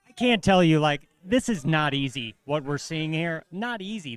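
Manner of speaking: loud, high amazed commentary; real awe; excited. Real, not acted. Marvelling at the shot.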